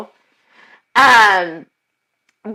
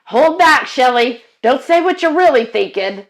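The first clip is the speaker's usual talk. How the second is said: tense inner pep talk, pitched up; inner self-warning; 2 semitones higher, 4 dB louder than usual. Retold or imitated. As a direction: hiss a warning at yourself not to blurt it out. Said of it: "part of it is it's like".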